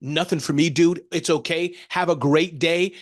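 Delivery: mild mock-cheerful sarcasm; sarcastic farewell. Shown as a demonstration. Ramon sarcastically sends off a prospect who said no. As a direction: wish them poverty with a smile. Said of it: "we're gonna let them go like this".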